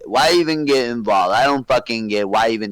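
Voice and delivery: loosely imitating Donnie, mild; a half-hearted take on Donnie; Donnie impression. Friend imitating Donnie for the guys, lightly voiced. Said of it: "Doesn't sound like Don at all".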